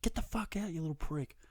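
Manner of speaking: strained, high mock fury; mock angry yell. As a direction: re-enact ordering the cat out. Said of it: "'cause I'm angry".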